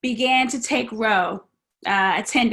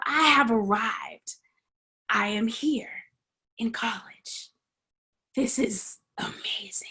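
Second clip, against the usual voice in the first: an unvoiced inner whisper, fading softer; awed whisper; 4 dB quieter than usual. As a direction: whisper it to yourself in wonder. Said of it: "I'm thinking to myself".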